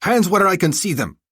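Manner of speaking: loud soldier's order; shouted command. Acted. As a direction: bark it as a threat.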